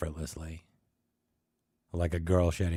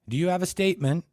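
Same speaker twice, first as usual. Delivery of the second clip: mock judicial; 12 semitones higher, 7 dB louder, faster than usual. Mock judge asks.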